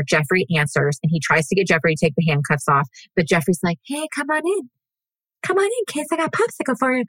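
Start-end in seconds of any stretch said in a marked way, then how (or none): 3.9-7.0 put-on creepy old man voice. Jeffrey luring the victim inside, creepy old man voice. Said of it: "It was the creepy old man voice for me".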